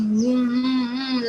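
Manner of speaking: wavy hummed "mm" sounds; humming gliding sound. Shown as a demonstration. Teacher shows children how a snake glides, humming. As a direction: hum along as if gliding.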